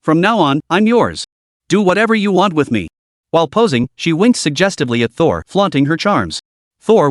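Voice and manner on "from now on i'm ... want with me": flirtatious. Acted. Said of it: "deliberately struck a flirtatious pose".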